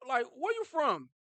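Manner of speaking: lightly voiced stern father grilling a boy; a hint of an overprotective father; protective dad. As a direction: question him like a wary dad. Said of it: "you like".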